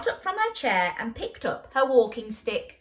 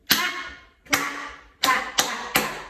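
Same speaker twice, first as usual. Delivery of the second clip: rhythmic clap words; 4 semitones higher than usual. Shown as a demonstration. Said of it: "listen first".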